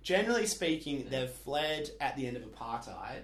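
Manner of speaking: high, loud mocking South African accent with laughs; white South African accent. Perth local mocking South African expats, loud high South African accent. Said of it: "can I do my accent?".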